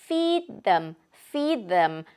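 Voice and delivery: "feed them" run together as one word, "fid-em"; linked feed them. Shown as a demonstration. Teacher showing the linked sounds as one word. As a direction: merge "feed them" into "feedem". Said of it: "연음으로 나고 있는 거예요".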